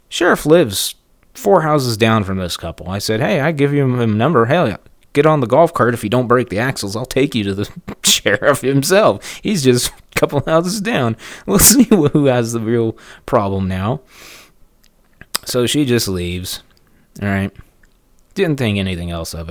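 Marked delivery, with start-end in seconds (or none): 3.2-14.0 taunting. Retold or imitated. Taunting neighbor with sheriff.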